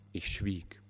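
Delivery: hushed whispered admission. A narrator's reading. Pastor admits he had no words, whispered. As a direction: breathe it out, barely voiced. Pastor falls silent before grief.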